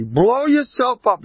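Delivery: high, slow, loud mock command; mock exhortation. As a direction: stretch it out grandly. Mock advice to self-enlarge.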